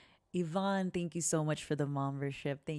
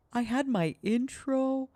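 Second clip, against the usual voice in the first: flustered embarrassment; 8 semitones higher, 4 dB louder than usual. Real, not acted. Streamer to chat after going live unnoticed, flustered and much higher. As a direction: squeak out the apology, caught off guard. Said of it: "Oh, this is so embarrassing".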